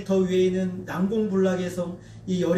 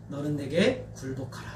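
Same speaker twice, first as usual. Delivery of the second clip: lower, slow, soft divine command; God commanding; 4 semitones lower, 4 dB quieter, slower than usual. Retold or imitated. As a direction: speak as God, grave and slow. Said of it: "라고 말씀하세요". (낮고 느린 하나님의 명령)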